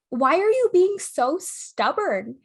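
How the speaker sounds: high, slow, loud mock complaint; hammed-up retold exasperation; exasperated accusation. Acted quarrel, his accusation.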